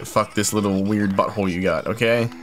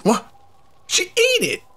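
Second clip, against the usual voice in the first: shocked disbelief; slower than usual. Real, not acted. Charm eaten in disbelief.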